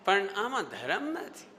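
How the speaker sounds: slow, drawn-out qualification; Swami ji. Retold or imitated. Teacher showing the swami's tone to students, slow qualification. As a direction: imitate a preacher gently adding the catch. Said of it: "ये, ये, ये, ये tone".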